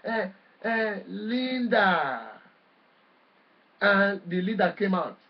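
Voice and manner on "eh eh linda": long, lingering cry of recognition, retold; drawn-out exclamation. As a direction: stretch the name out very slowly. Exclaims on seeing Linda come out.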